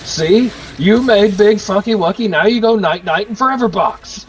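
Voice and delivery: lightly voiced sing-song baby talk to a drunk friend; mock baby talk. Retelling a video, a dude scolds his drunk friend in mock baby talk.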